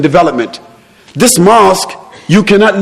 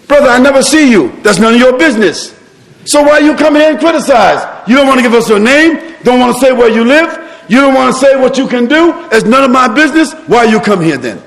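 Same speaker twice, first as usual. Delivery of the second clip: sheikh's retort; 7 semitones higher than usual. Retold or imitated.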